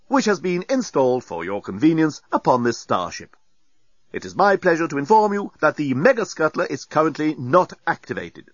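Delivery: a lightly voiced polite machine; courteous automated announcement, lightly done; polite computer voice. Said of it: "A polite voice said".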